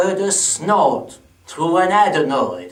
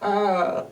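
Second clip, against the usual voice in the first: soft trailing laugh; acted laugh; 6 dB quieter than usual. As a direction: laugh theatrically, letting it die away. Performer laughs after his name.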